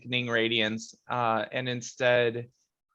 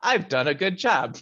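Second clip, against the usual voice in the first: higher-pitched, lightly voiced character; a touch of self-congratulation, pitched up; Clave; 6 semitones higher, 3 dB louder than usual. Player voices the character before he goes back in, lightly hammed-up. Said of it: "he's gonna be like".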